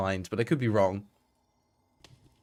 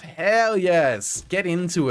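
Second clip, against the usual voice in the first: excited cheer; 6 semitones higher, 4 dB louder, much slower than usual. Real, not acted. Cheering chat's Halloween setup.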